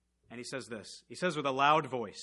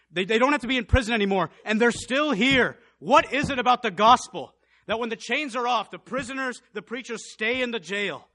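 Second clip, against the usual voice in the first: high, loud amazed thoughts; inner wonder; 6 semitones higher, 12 dB louder than usual. Acted. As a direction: jailer thinking aloud, high and loud in amazement. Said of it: "I just wonder if he thought to himself".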